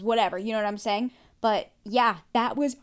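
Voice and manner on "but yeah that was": louder, appalled and worked up; outraged. Real, not acted. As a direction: let the disbelief spill out. Reacting to the insult.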